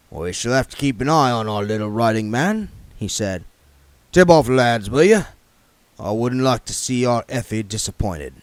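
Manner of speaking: put-on the king sizing up the young man; Harry King voice. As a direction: voice the shrewd old yard boss sizing him up.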